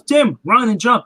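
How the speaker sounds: mild mock yell across a gap; retold yell. Donna calling to Tim across the broken bridge, mild retold yell. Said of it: "and she yells".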